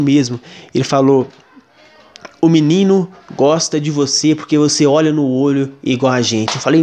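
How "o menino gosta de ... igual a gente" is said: low, eerie voice of a possessed man; a touch of spooky menace, sinking low. Retold or imitated. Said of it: "foi de um jeito muito louco". (voz grave e estranha de possuído)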